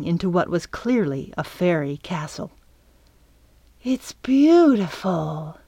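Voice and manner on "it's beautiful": slow, awestruck exclamation; marvelling, slow and drawn out; breathed in awe. A narrator's reading. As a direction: draw it out in wonder. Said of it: "Stinky breathed".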